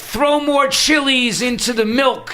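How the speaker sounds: a lightly mocking impression of the dismissive president; mock guru voice.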